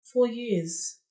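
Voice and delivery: hushed after the outburst; subdued repeat. Acted. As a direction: let it sink in, resigned. Same words repeated, sinking in.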